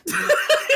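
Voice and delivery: high breathy laugh burst; burst of laughter. Real, not acted. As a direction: crack up laughing.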